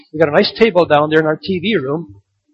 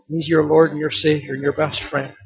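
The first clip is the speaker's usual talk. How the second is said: ordinary talk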